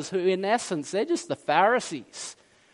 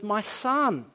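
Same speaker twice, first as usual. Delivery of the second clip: gently voiced, tender address to a son; lovingly, with understated warmth; tender father; 2 semitones higher than usual. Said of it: "Do you hear the tenderness in his voice?".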